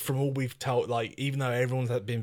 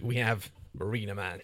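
laughing. Real, not acted. Laughing through punchline.

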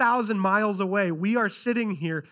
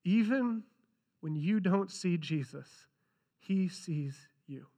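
slow, softer, ending in a whisper; 6 dB quieter, slower than usual. Shown as a demonstration. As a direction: let "he sees you" fall to a whisper. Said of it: "repeated slowly, softer".

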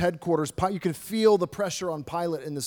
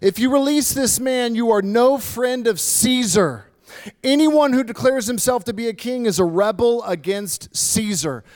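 mild shout; 4 semitones higher, 4 dB louder than usual. Acted. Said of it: "the Jewish leaders shouted".

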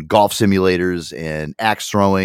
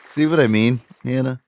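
ordinary talk, nothing marked

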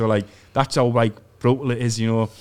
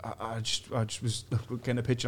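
retold nervous stammer, trailing off softer; mildly flustered, dropping quieter as it goes; a bit nervous; 4 dB quieter than usual. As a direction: imitate a sheepish, halting apology. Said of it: "I got a bit nervous".

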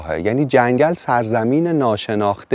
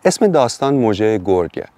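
plain reading voice

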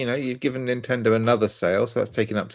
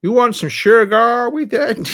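high, slow mock-posh "sugar"; hammed-up upper-class drawl; 11 semitones higher, 7 dB louder, much slower than usual. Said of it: "like, a posh voice".

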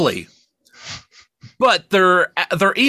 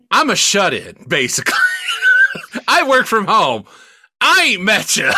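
mock shout; 3 semitones higher than usual. Ranting reply to scam email.

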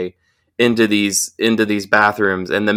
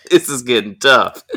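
mock shock; 4 semitones higher, 4 dB louder than usual. Mock shocked reaction to the fight.

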